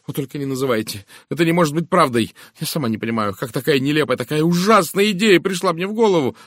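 agitated, high and loud protest; frightened cry. A narrator's reading. Miss Howard begs Poirot not to name him, frightened cry. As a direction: plead loudly in alarm, pitch climbing. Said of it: "испуганно закричала мисс Говард".

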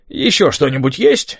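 talking with food in mouth; mouth full. A narrator's reading. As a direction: ask through a mouthful. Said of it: "спросил Том набитым ртом".

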